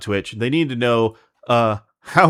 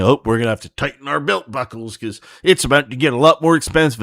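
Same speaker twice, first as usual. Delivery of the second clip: mocking Linus; 3 semitones higher than usual. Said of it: "and then saying".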